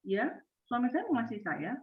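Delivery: just going through the motions; quiet, resigned yes; flat answer. Shown as a demonstration. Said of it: "Perhatikan ekspresi saya".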